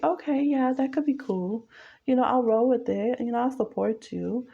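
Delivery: breezy and agreeable; easygoing muse. Retold or imitated. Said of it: "the one who's allowing".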